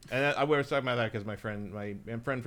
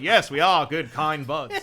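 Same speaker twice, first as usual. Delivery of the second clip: laughing mock reply; 4 semitones higher, 9 dB louder, slower than usual. Mimicking the dealers, laughing.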